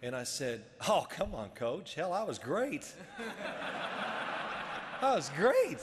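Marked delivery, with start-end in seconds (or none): 0.9-2.9 lively retold protest to the coach; cocky protest. 5.0-5.8 high, loud retold boast; emphatic boast. Repeats his boast for laughs.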